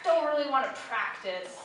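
unvoiced, half-hearted whisper; mock lazy whisper; reluctant whisper. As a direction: whisper the excuse like you're dodging work. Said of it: "everybody's like".

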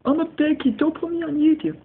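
high-pitched mock kid voice; mocking the bad kid. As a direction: parrot the kid in a high, teasing voice. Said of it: "then he's probably saying".

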